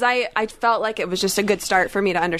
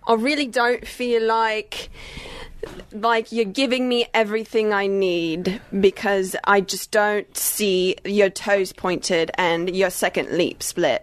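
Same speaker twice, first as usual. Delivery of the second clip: picky choreographer; slower than usual. Acted. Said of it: "I was Nigel Lithgow".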